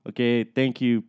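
tossed-off blah blah over the radio; careless radio sign-off. Retold or imitated. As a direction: rattle off blah like you don't care. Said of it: "So I said".

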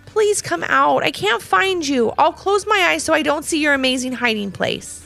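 high, pleading call to a hider. Acted. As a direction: coax someone out, pitched high. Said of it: "she called out again".

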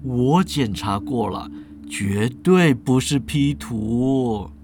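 smug professor. Acted. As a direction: savour each word like a self-proclaimed mad scientist. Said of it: "严教授说了".

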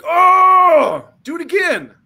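mock agony, still eager; pained groan.

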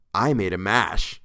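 put-on slow, drawn-out girlish admission; coy young woman's voice; coy confession. A narrator's reading. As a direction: let the news out slowly, relishing it.

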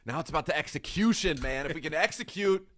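rally the locker room, ending lines with man; fired-up coach. Pretend. Mock coach voice, firing up his team after a close loss.

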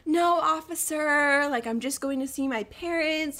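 mock-innocent plea to a cop; playing innocent. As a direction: stretch it out sweetly, feigning innocence.

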